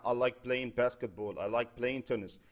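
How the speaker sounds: very slow, clearly spaced words; slow English example. Shown as a demonstration. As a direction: model the sentence slowly for students. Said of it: "ممكن اشيل فوتبول واحط ايه مكانها". (نطق بطيء وواضح للمثال)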